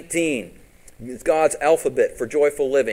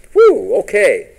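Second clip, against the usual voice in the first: loud relieved exhale, higher and louder; relieved whew; 7 semitones higher, 10 dB louder, slower than usual. Real, not acted. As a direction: blow out a big whew of relief. Relieved after hard point.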